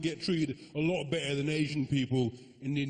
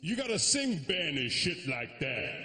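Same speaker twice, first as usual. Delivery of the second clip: Indian dad; slower than usual. Retold or imitated. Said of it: "he's a".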